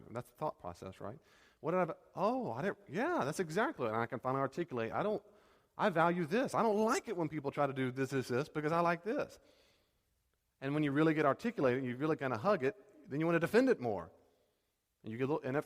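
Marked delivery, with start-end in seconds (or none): 1.6-9.4 higher, eager discovery; light up as it finally clicks; excited realization. Pretend. Acted moment of realization.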